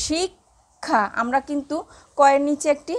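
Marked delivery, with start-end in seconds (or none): 0.1-1.0 শিক্ষা drawn out slowly as shikkhaa; teacher slowly modelling শিক্ষা; careful demo. Shown as a demonstration. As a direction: stretch শিক্ষা slowly for the class. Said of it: "এই দেখো".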